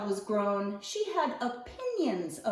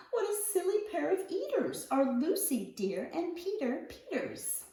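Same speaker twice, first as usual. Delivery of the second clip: giggling softly; 4 semitones higher, 4 dB quieter than usual. Acted. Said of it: "giggle softly to herself".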